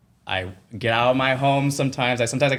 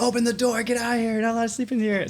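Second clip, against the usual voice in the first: much higher, mock-shouted guard; security guard; 14 semitones higher, faster than usual. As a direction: order them out like a security guard. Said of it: "there's some security banging".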